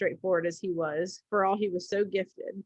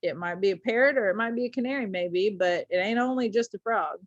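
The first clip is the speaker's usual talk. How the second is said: indifferent. Acted. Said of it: "sorta indifferent like".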